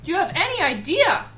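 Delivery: anguished accusation, rising in pitch; distraught. Acted. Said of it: "majorly distraught by this".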